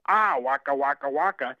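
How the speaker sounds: light Fozzie Bear imitation; a hint of the Muppet bear. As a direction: toss off a lightly voiced waka waka. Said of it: "Fozzie Bear is Frank Oz".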